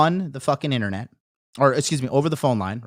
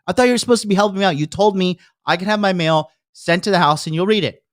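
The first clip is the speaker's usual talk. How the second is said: fast, higher-pitched complaint to mom; retold yelling; 3 semitones higher, faster than usual. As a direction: rattle off an irritated reproach. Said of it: "like, yelling at my mom".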